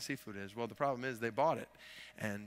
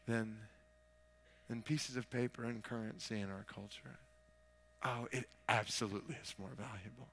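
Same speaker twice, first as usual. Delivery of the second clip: hushed preaching. Real, not acted. Hushed searching question to congregation.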